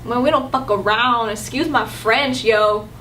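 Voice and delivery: tough East LA Chicano street talk; light East LA accent. Acted. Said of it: "if I wanna be from East L A".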